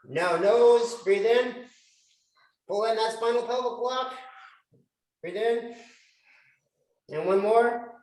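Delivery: paced, lifted instructor cues to a group; fitness class cues. Acted. Instructor counting a group through breaths, in lifted coaching voice.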